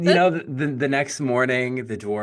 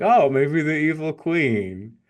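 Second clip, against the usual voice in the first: imitating Sleepy; 6 semitones higher, 4 dB louder, slower than usual. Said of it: "He's like".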